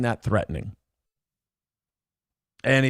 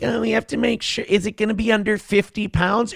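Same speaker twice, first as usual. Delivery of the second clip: higher-pitched mock worry; mock fretting; 5 semitones higher than usual. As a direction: imitate someone fussing over luggage. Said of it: "the days of like".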